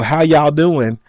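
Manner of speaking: slightly hammed-up Southern country accent; country greeting. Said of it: "that was country".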